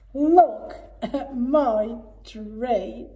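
lightly voiced proud owl. Owl proudly showing her tree, slow. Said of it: "she said".

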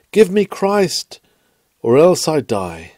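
a soul begging Christ for life, crying desperate plea. Acted. Sinner crying out to God.

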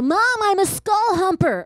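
hint of a casual teen son; lightly voiced son announcing it; imagined son. Son breaking news to his mom, lightly voiced. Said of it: "he'll be like".

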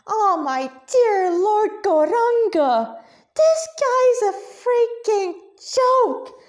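loud, high, slow furious outburst; furious cat-demon rant, rising to a yell; spat out. Acted. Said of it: "Radha spat".

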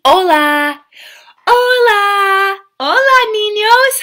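"Hola" said loud and clear as OH-lah; Spanish hello. Shown as a demonstration. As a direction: model "Hola" slowly for the kids to repeat. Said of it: "We say".

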